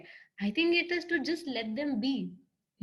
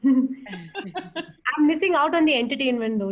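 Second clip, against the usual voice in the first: laughing; 2 semitones higher, 7 dB louder, slower than usual. Real, not acted. Laughing at mic glitch.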